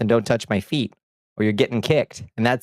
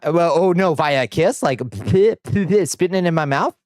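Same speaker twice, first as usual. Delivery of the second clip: laughing disgust; 6 semitones higher, slower than usual. Real, not acted. Disgusted at a kiss-shared drink.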